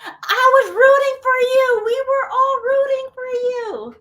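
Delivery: 높고 크게, 느리게 울먹이는 척; hammed-up crying plea, slow and high; mock tearful. Mock-tearful meme quote.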